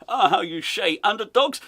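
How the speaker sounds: hesitant question in hammed-up Dutch-English; mock Dutch accent. Host acting manager asking interviewer for a word, mock Dutch accent. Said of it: "He's speaking in a Dutch accent".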